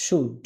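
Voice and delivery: "should" modelled with a silent L; pronunciation drill. Shown as a demonstration. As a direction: say "should" alone for learners to copy. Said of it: "এই শব্দটার উচ্চারণ আপনারা সব একটু করেন".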